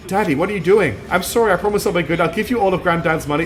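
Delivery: put-on a touch of a frightened little girl begging; pleading daughter.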